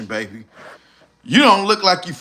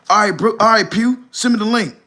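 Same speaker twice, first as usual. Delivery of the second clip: eager friend; 5 semitones higher than usual. Retold or imitated. Handy Duo agrees on phone.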